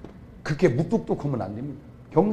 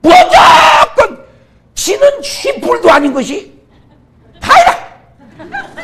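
very slow, much higher, very loud drawn-out shout; mocking crowd yell; 11 dB louder, much slower than usual. Preacher imitating Gyeongsang listeners shouting that he failed, hammed-up yell. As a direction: howl the verdict like a heckling crowd. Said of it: "곳이 경상도다".

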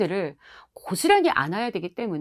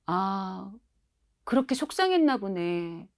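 calm empathy; 4 dB quieter than usual. Shown as a demonstration. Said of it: "공감해 주셔야지 돼요".

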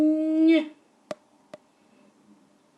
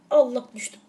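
laughing groan; 3 dB louder than usual. Real, not acted. Falls in game, laughing.

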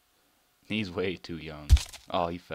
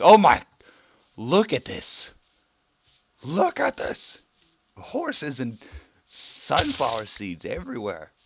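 very high, loud squeal; squealing delight at the horses; ecstatic squeal; 8 semitones higher, 13 dB louder, slower than usual. Real, not acted. Thrilled by horses.

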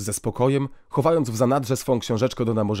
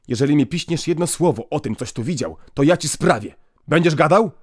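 threat; 4 semitones higher, 4 dB louder than usual. Acted. Priest threatens the boy.

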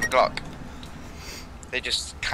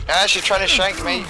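panting dog; 5 semitones higher, 3 dB louder than usual. Real, not acted. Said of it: "Why do I sound like a panting dog?".

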